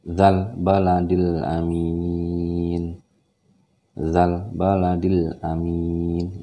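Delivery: 'Dzal' said slowly and clearly; over enunciating. Shown as a demonstration. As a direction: stretch 'Dzal baladil' clearly. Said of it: "Ya, jelas ya. Tidak boleh ditahan".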